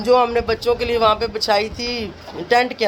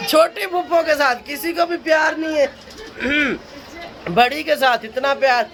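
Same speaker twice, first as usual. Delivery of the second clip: mock complaint. Real, not acted. Teasing complaint to kids.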